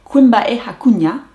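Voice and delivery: "Quimba e hakunya" said clearly, stressing Quimba; the fixed, careful take; corrected Guarani. Shown as a demonstration. Learner correcting herself on camera, careful Guarani. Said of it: "No, sorry".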